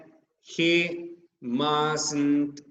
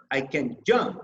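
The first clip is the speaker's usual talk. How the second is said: "jump" hit as the main beat; stress on jump; faster than usual. Shown as a demonstration. Teacher shows where stress falls with can, stress on jump. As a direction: pass over "can", land on "jump". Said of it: "we say it in the verb".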